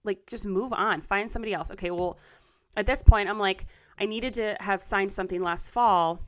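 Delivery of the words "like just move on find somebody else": imitating friends' advice. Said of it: "so many people in my life are like".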